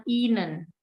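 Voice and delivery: "ihnen" with long I, no H sounded; silent H. Shown as a demonstration. Teacher adding another example, silent H in "ihnen". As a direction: hold the first I in "ihnen". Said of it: "hanya itu silent".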